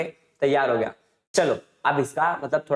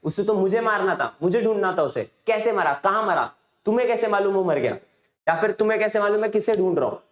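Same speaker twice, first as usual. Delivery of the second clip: higher-pitched mock outburst of angry questions; retold anger; 4 semitones higher than usual. Stranger demands how his enemy died, mildly angry. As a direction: fire off indignant questions, mildly acted. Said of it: "एकदम गुस्से में आ गया".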